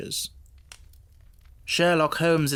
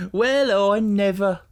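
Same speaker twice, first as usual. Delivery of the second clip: amused scoff; 5 semitones higher, 5 dB louder, slower than usual. Acted. Wilson scoffing after laugh.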